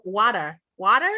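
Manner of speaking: "water" with an open "wah" first vowel; standard pronunciation. Shown as a demonstration. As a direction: say "water" as "wah-ter", trying it out carefully. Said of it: "That's what it's supposed to be".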